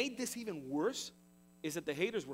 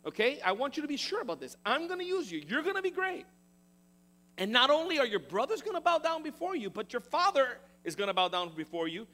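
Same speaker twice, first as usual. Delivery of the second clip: higher and louder, bold insistent promise; God encouraging; 6 semitones higher, 6 dB louder than usual. Acted. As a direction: pump him up, building to the bow-down lines. God reassuring Joseph with second dream.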